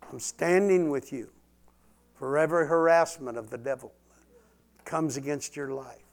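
full-force preacher proclamation; preaching at full force. Real, not acted. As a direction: thunder it against the devil.

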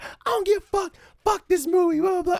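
high, loud mock heckler voice; rowdy heckler. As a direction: play the drunk-sounding troublemaker shouting back. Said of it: "He's like".

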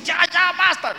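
high, loud, forceful protest; acted self-command. Someone ordering himself to stop the pain, high and forceful. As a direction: cut yourself off firmly, loud and high. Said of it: "dice alguno".

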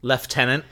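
"Lieutenant" said the British way, as left-tenant. Shown as a demonstration. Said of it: "I know they say lieutenant".

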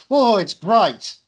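loud, high, drawn-out whoa; hammed-up cry of amazement, stretched out; mock amazed exclamation. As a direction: exclaim it in exaggerated wonder. Acts out an undercutting joke in the show.

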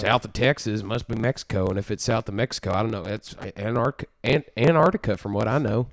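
lightly put-on Texan accent; a hint of Texas twang; Texan impression. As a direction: play a know-it-all Texan. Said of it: "impression that I've heard, actually, of, of a Texan".

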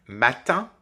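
matin, le in final nasal bien posé; mot d'exemple. Shown as a demonstration. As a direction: dites matin en nasalisant la fin. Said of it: "Nous avons donc par exemple". (matin prononcé avec le son nasal)

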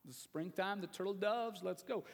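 lightly acted smooth-talking husband; mock-suave sweet talk to his wife; smooth and cool. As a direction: play at coaxing her, coolly. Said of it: "Solomon is being all smooth and cool here".

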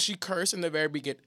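words broken by hiccups; hiccuping. Real, not acted. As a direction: talk through hiccups. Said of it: "I keep hiccuping".

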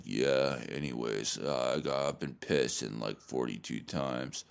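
low, slow, dopey bro voice mumbling nonsense; mock dumb podcast guy. Mocking a clueless podcast guy in a low dopey drone. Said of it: "this guy being like".

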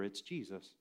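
a quiet awed hush; hushed whisper. Retold or imitated. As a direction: breathe it out like a secret. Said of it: "whispers to Peter".

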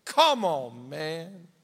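slow, drawn-out doubting question; tempting serpent. Acted. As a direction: stretch the doubt out slyly. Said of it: "he always goes like".

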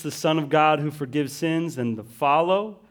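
ordinary talk, nothing marked

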